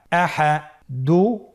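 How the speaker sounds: "আহা" run together as one word; syllables joined. Shown as a demonstration. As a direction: blend both syllables of "আহা" without a break. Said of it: "এভাবেও পড়তে পারেন". ("আহা" একসাথে মিলিয়ে)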